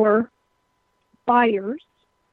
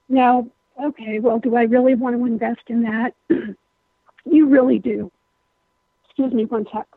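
hoarse, strained voice; talking through a voice that's going; voice giving out. Real, not acted. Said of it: "I'm losing my voice today".

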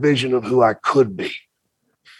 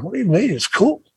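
put-on high, defiant young self; defensive; 8 semitones higher than usual. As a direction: brush it off as cool. Mocking his younger defensive self.

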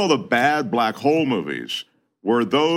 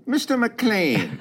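Hans from Die Hard; 10 semitones higher, much slower than usual. Acted. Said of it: "Can you just say this for me?".

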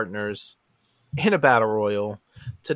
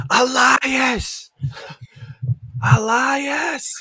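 high, loud cry of shock; shocked shout; 11 semitones higher, 5 dB louder, much slower than usual. Retold or imitated. Jeff calls out as he passes the ambulance, high shocked shout. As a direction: call the name out in mock shock. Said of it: "he's shocked to see him".

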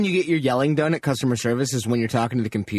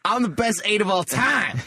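high, slow brag; a rapper's interruption; 4 semitones higher than usual. Retold or imitated. A rapper quote joke.

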